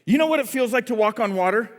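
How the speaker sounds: mildly challenging comeback; fed up. Acted. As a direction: throw it back at your brother, a touch irked. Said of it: "gets fed up and he goes".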